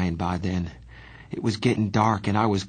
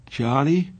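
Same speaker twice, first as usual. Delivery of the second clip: yawning; 6 semitones higher than usual. Acted. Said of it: "I yawned".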